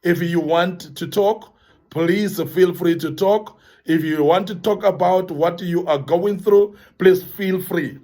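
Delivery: calm, caring reassurance; gentle invitation. Shown as a demonstration. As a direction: offer it slowly, with no pressure. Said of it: "phrase that we need to be saying".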